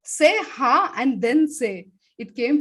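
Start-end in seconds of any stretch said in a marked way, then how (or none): 0.0-0.9 higher, louder ha from the throat; teacher's demo ha. Shown as a demonstration. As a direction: pop out one short ha. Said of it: "that is why I said".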